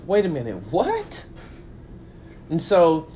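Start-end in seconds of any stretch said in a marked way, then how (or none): 0.1-1.3 disbelieving what. Retold or imitated. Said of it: "I'm saying to myself".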